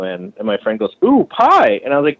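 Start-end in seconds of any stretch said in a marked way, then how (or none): 1.0-1.8 high, cooing mock excitement; mock eager delight. Friend eyeing the apple pie, mock eager. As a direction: imitate a freeloader spotting food, pitched high.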